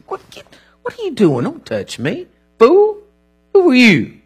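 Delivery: jumpy, indignant push-away; suspicious outburst. Acted. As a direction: recoil from the stranger with a yelp. Acted suspicious man pulling away.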